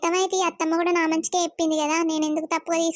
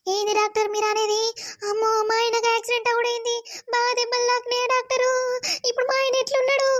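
higher, fast panic on hearing the news; wife hearing of her husband's accident, higher panicked voice; panicked shock; 5 semitones higher than usual. Acted. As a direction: rush out the questions in rising alarm.

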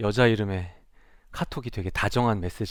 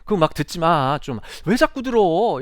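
meddling teacher; 4 semitones higher, 5 dB louder than usual. Retold or imitated. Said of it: "개입과 간섭이라고 느껴지는 말들".

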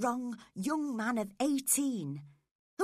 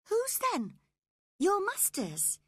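put-on high girlish voice, pleading; a young girl defending herself, pitched high; spoilt young girl; 11 semitones higher than usual. Girl pleading with her nurse, high girlish voice.

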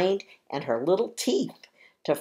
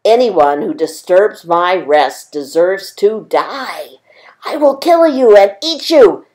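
a lion's threat, whispered high and louder; menacing lion whisper; 4 semitones higher, 11 dB louder than usual. Acted. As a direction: hiss the threat as an angry lion. Lion woken from rest threatens mouse.

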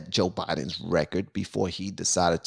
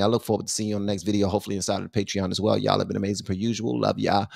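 rapid-fire channel outro; sign-off spiel; 2 semitones lower, faster than usual. Real, not acted. Host signing off to his viewers, rapid-fire spiel. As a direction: rattle off the usual subscribe plug.

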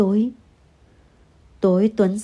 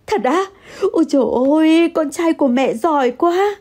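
delighted mother; 7 semitones higher than usual. Acted. Mother thrilled at son's words.

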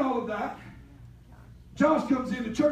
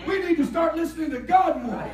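louder, driving the line home; preached emphatic; 3 semitones higher, 5 dB louder than usual. Shown as a demonstration. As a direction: proclaim it to the church. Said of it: "That's what the man of God said".

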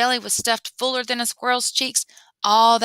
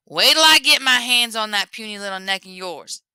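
louder menacing threat; threatening Buki; 5 dB louder than usual. Acted. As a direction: promise to grab his neck.

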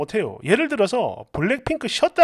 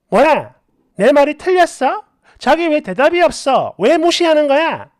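louder, affronted questions; indignant demanding; 3 semitones higher, 4 dB louder than usual. Acted. Wife demanding a reply from silent husband, indignant demand. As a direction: press for an answer with annoyance.

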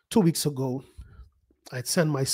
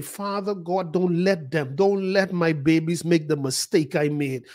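spoken prayer; 3 semitones higher than usual. Shown as a demonstration. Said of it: "I say".

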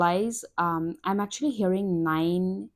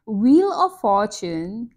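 laughing; 7 dB louder, slower than usual. Real, not acted. Laughing while naming the card.

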